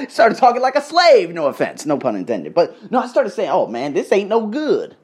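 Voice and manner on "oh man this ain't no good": lightly put-on Southern accent, slow. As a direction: stretch it out with a touch of the South. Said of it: "Started talking like that down south accent".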